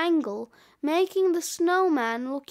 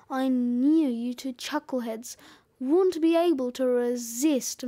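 a hint of a cocky snowman telling his story; gruff, cocky snowman; 2 semitones lower than usual. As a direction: tell it as a mildly gruff snowman. Snowman character tells his story.

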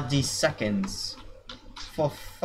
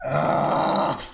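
drawn-out "aah" of frustration; wordless frustrated yell; long yell. Real, not acted. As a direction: let out a sustained cry at usual pitch. Yell at the skeletons.

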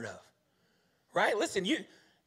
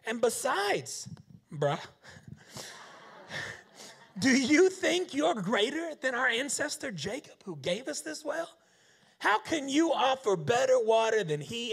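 higher, challenging woman; defiant challenge; 5 semitones higher than usual. Acted. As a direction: call him out with a scoff. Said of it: "she's gonna tip the scales here".

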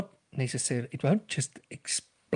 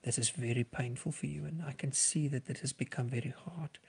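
gentle reflecting; 5 dB quieter than usual. Shown as a demonstration. Counsellor reflecting a suicidal person's pain, soft and caring. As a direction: lay each phrase down gently. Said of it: "you can just reflect on what you're hearing".

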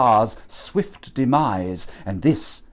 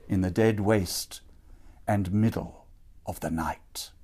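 breathed with no voice, hushed and spooky; eerie whisper; 4 semitones lower, 6 dB quieter than usual. A narrator's reading. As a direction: whisper it like a ghost story. Spooky opening line of the tale.

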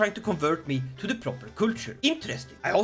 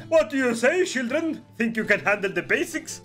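lightly voiced spymaster, higher pitch; spymaster addressing children; 4 semitones higher than usual. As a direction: play the spymaster challenging the kids. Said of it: "when my spy master, Varugis, approached them".

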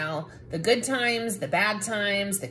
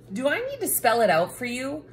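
exasperated; 3 semitones higher, faster than usual. Acted. Cranky book lecturing reader.

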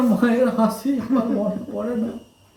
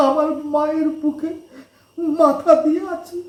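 pleading through tears; crying. Acted. Young man weeping, begs the old woman to hold him like his mother. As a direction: beg for comfort, voice breaking. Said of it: "কান্দোস না".

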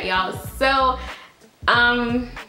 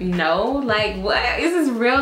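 disbelieving; 3 semitones higher, slower than usual. Retold or imitated. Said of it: "I was so nervous".

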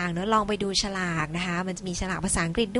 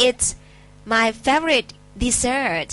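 slow model sentence; 3 semitones higher, much slower than usual. Shown as a demonstration. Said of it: "models the sentence".

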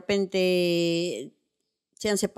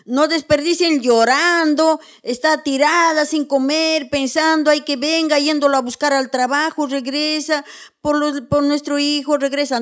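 mock pining mother; 4 semitones higher than usual. Mocking a pining abandoned mother.

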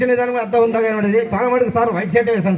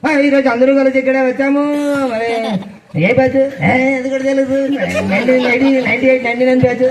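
a light hint of a film star's voice; mildly imitated star addressing his old classmates; Balakrishna impression. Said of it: "Balakrishna గారి voice ఎలా ఉంటుంది?". (బాలకృష్ణ గారిలా తేలికపాటి అనుకరణ)

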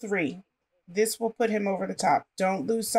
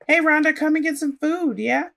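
calling out; 6 semitones higher, 4 dB louder than usual. Pretend. Calling a sim to eat.

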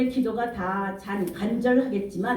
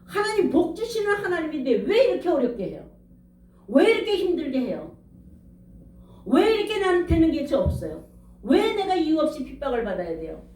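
pitched-up, accusing complaint, half-acted; retold angry protest; 4 semitones higher than usual. Preacher retelling how he pointed his finger at God, mock accusing. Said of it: "하나님 앞에 삿대질을 하면서".

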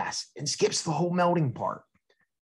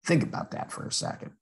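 whispered aside; 5 dB quieter, faster than usual. Real, not acted. Teacher prompting kids to think.

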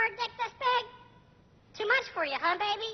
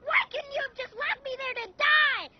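despairing shout; 5 semitones higher, 3 dB louder than usual. Acted. Bird despairs, yelling at owner.

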